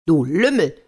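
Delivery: furious princess yelling at the soldier; angry shout. A narrator's reading. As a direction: snap at the rascal in anger. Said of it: "schrie Jelena die Weise".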